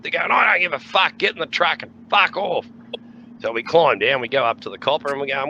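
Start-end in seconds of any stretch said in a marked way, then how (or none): 0.3-2.7 tag only. Retold or imitated. Cop ordering them away.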